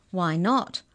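plain reading voice

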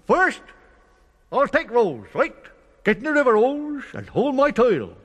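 high, loud instructing worm; bossy worm. Acted. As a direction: take charge of the crossing. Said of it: "worm directs Rose".

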